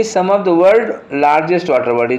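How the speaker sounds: reading the sentence very slowly, word by word; slow dictation read. Shown as a demonstration. Teacher reading the question sentence to students, very slow and deliberate. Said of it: "quotes the sentence slowly".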